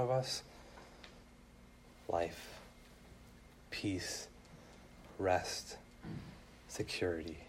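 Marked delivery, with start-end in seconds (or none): 2.1-7.4 much softer and lower, almost whispered; soft, hushed offering. Real, not acted. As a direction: hush each word like a gift. Offering peace to the hearers.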